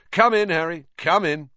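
loud, high, jovial welcome; Lockhart. A narrator's reading. Vain teacher ushering pupil in, beaming. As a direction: usher him in with booming cheer. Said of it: "Lockhart beamed down at him".

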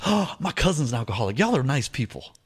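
imitated delighted woman. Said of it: "She goes".

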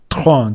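tron said slowly with a French uvular R. Shown as a demonstration. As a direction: roll tron at the back of the throat. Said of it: "就是一个小舌音". (小舌音 tron)

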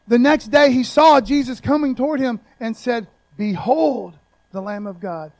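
loud proclamation. Acted. Reread louder for emphasis.

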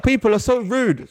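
high, slow huffy lady voice through a laugh; mock her prim complaint; mimicking the woman. Imitating the barged woman, high slow huffy voice. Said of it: "She's like".

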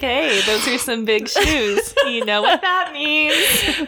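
slow, high, teasing come-on; flirty wife voice. Retold or imitated. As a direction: draw it out like a flirt. Imitating flirty wife at party.

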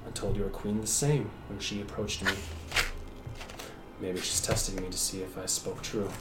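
words through gritted teeth. Acted. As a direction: force it out through clenched teeth. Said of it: "speaks through gritted teeth".

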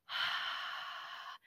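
soft unvoiced outbreath; just breathe out with no voice; airy exhale with no vibration; unvoiced breath. Shown as a demonstration. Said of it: "like you're breathing, breathing out".

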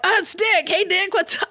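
high, falsely cheerful greeting; sing-song taunt to an angry rival; mock cheery taunt. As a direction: needle him with fake friendliness. Taunting rival while pinned.

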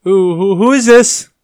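high, loud crude English voice; crude Englishman. A narrator's reading. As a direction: bark it out like a rude Englishman. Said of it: "an Englishman's voice asked crudely".

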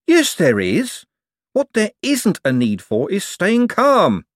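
high, loud, agitated retort; worked-up insistence, anything but calm; hysterical. A narrator's reading. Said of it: "no need to get hysterical".

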